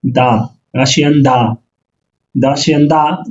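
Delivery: দা said as Russian da; Russian yes. Shown as a demonstration. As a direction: say দা with a short open a. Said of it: "Bangla হলো হা". (রুশ উচ্চারণে দা)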